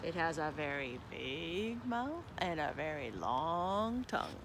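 scare them with the snake; spooky father frog. Acted.

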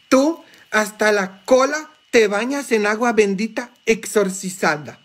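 high teasing voice, lightly put on; mocking friend. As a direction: tease like a joking buddy. Amigo sacerdote burlándose, citado. (imitando un poco a un amigo burlón con voz aguda)

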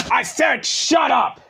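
slow, punched angry yell; angry shout. Real, not acted. Telling the other to shut up, angry shout. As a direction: bark it out to shut them up.

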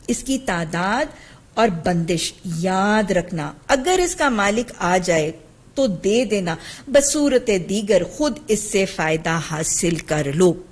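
measured, slightly subdued reading of a text; reading hadith aloud. A narrator's reading. Teacher reading a hadith to her students, measured recital. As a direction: read out the narration plainly and deliberately.

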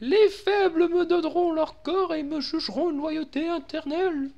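high pompous demon lord; villain voice. Pretend. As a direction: proclaim like a grand villain. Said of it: "J'ai un peu la voix de Mickey aussi".

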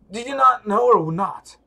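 furious shouted demand; angry shout. Acted. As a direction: shout the question in his face. Voicing an enraged game character.

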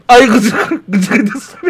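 high, laughing little curse; giggly mock insult. Shown as a demonstration. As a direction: giggle it out while cursing. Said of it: "Mesela ben şöyle derim".

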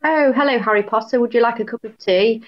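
hammed-up English greeting with a Cockney ring; Cockney-sounding English. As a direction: greet them in a chirpy Cockney-like accent. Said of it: "that sounds really Cockney".

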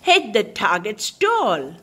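lively read-aloud storytelling; animated bedtime story reading; story narration. A narrator's reading. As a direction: read the picture book to a child. Reads the picture book aloud.

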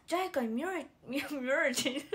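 playful mispronounced 見られ, breaking into laughter; cute speech. Retold or imitated. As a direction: imitate cutesy slurring on 見られ. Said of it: "可愛いんだよ、 喋り方が。".

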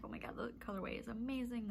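ordinary talk

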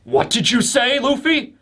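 mildly stunned, halting question; hesitant, rising at the end. Acted. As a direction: stumble on the first word, then ask in disbelief. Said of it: "Jinbei's is more stunned".

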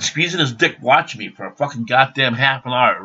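ordinary talk

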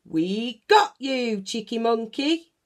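high, loud gleeful gotcha; triumphant surprise shout; shouted boo. A narrator's reading. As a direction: leap out and shout it together. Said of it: "they all said, laughing".

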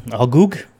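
"Algoog" sounded out as misspelled, with a hard g at the end; typo read aloud. Real, not acted. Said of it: "I think you mean all good".

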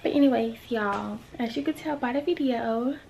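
hushed half-whisper to camera. Real, not acted. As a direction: keep it quiet, barely voiced. Hushed recording, voice low.

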